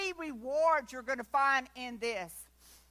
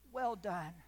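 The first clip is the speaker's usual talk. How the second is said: softer, lower "well done" barely voiced; hushed well done; 6 semitones lower, 7 dB quieter than usual. Believer hearing God's praise, hushed awe. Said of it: "I'm gonna be so tuned in".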